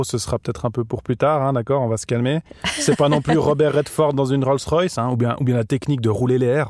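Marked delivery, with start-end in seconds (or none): 2.6-5.0 Robert Redford dans une Rolls-Royce with every r rolled on the tongue. Shown as a demonstration. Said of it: "t'aimes pas mon rrr?".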